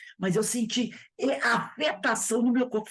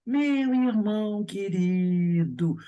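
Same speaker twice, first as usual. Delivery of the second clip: slow, mild gentle address; the meek spirit voice he rejects; soft gentle Emmanuel; much slower than usual. Retold or imitated. Mocking the meek Emmanuel greeting to a brother, slow and soft. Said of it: "Emmanuel não era assim".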